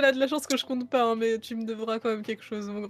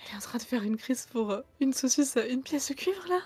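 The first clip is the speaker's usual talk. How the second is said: hushed whisper under the breath; 5 dB quieter than usual. During a game, a player whispers to another player: whispering. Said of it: "Je chuchote à Constantin".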